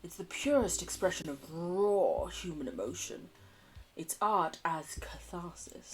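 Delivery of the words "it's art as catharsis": whispered. Acted. Reverent line on performance art.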